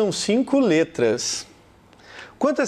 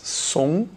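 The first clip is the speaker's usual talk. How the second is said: SOMBRA as SOM, long pause, BRA; split into syllables. Shown as a demonstration. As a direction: break SOMBRA into two separate beats. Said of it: "Quantas sílabas?". ("sombra" separado em sílabas: som... bra)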